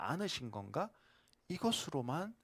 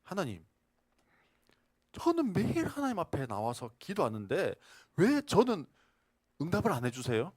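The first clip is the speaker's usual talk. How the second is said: mock protest; 4 semitones higher, 4 dB louder than usual. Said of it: "막 따졌어요".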